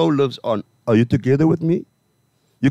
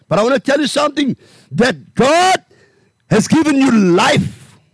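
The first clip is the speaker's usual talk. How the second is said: high, stretched preaching voice; fervent preaching; 5 semitones higher than usual. Acted. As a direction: preach life into them. Preaching at full force.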